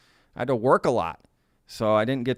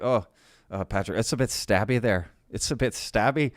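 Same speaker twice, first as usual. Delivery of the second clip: mock English friend's accent; put-on English accent at an ordinary pitch; horrific English accent. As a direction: warn a pal in a badly faked English accent. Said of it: "that's my horrific English accent".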